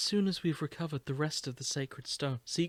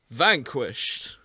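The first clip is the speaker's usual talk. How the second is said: shocked; 7 dB louder than usual. Acted. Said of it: "the shock evident in her voice".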